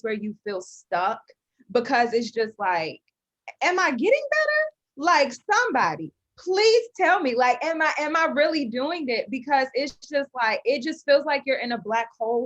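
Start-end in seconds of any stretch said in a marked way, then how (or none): 3.6-9.3 high anxious pleading; pleading, worried inner voice. Retold or imitated.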